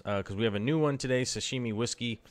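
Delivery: talking with a mouthful; words round a bite of food; mouth full. Real, not acted. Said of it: "Sorry, I got some in my mouth".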